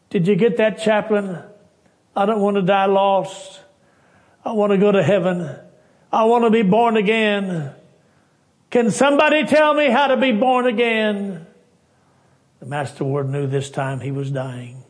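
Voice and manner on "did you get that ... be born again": higher, louder, rising desperate plea; pleading. Retold or imitated. Dying soldier pleading with Master Ward to be saved. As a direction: beg as if time is running out.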